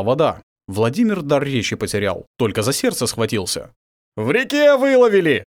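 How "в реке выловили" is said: high, loud, glad shout of news; joyful report. Acted. Warriors joyfully report to their prince, high and loud. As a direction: burst out with the good news. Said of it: "радостно отчитались".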